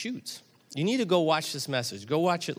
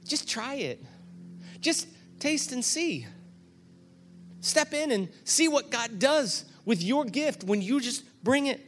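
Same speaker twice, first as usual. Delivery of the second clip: encouraging; 10 semitones higher than usual. Retold or imitated. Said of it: "Her whole message was".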